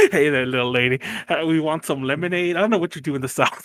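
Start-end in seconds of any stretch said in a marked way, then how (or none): 0.1-2.5 amateur Southern gentleman. Acted. Host echoes co-host's Southern gentleman, clumsy Southern accent. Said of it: "I can't do an accent at all".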